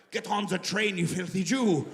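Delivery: hard, stern German accent; harsh German accent. Shown as a demonstration. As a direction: bark it in a mock German accent. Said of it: "the German accent's harsher".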